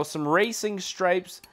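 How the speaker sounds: slow half-whispered aside; slowed, breathy hush. Real, not acted. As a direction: let the words drop to a secret whisper. Whispers an option mid-list.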